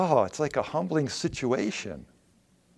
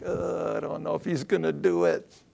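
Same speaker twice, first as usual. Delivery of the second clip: groaned, uncertain mock doubt; reluctant doubt; 3 semitones higher than usual. Believer doubting God will help them, reluctant doubt. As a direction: drag it out like an unsure believer. Voices doubt about one's own prayer.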